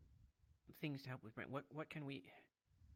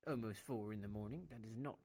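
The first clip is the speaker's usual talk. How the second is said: whisper; 6 semitones lower, 10 dB quieter than usual. Real, not acted. Four in the morning, quiet.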